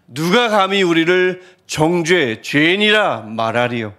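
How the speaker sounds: slow declamation, falling at the close; proclaimed challenge. Retold or imitated. Preacher quoting the apostle's verse, declaimed cry. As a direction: proclaim it deliberately, as a defiant question. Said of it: "이렇게 외치는 겁니다".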